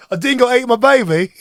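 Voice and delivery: hammed-up Australian catchphrase; mock Australian cry; bad Aussie accent. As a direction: do a badly faked Aussie accent.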